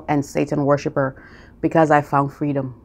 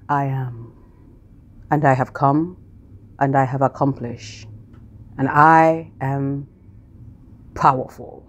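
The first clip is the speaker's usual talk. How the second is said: slow calm affirmation; 2 semitones lower than usual. Pretend. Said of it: "Meditation is".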